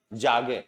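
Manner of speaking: जागे with the final ए said as its own clear syllable; German pronunciation demo. Shown as a demonstration. Teacher models जागे for Hindi-speaking German learners, carefully. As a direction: say जागे slowly, sounding out the last ए. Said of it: "क्या sound होगा?".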